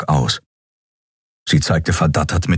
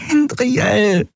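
verzweifeltes Flehen. Acted. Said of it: "flehte Nelen verzweifelt".

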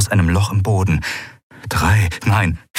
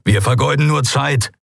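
urging; 6 semitones higher than usual. A narrator's reading. Crewman urging the others not to waste time, impatient. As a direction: press them to get moving. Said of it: "drängte Keru".

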